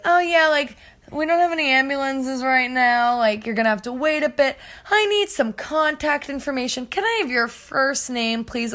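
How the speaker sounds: a hint of official phone voice; imitated operator. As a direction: mimic an unhurried call-taker brushing off urgency. Voices unhelpful emergency operator.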